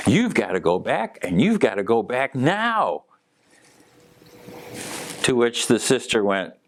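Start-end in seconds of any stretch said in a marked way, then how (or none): 0.1-3.0 a lightly voiced firm command, hands on hips; stern order. Sister's late sibling ordering her back, lightly stern. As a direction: tell her plainly she has to go back. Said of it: "and she goes".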